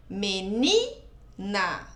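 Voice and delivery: "Menina" slowed right down, NI held long; stress on NI. Shown as a demonstration. Teacher showing pupils the penultimate syllable, stress on NI in "Menina". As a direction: stretch out the NI in "Menina". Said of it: "é o ni, o mais forte".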